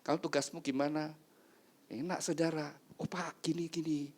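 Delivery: softened, mild workplace chat; acted kindly boss and staff exchange; gentle boss. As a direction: ask gently, without any sternness. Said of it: "Nggak lagi tegas-tegas".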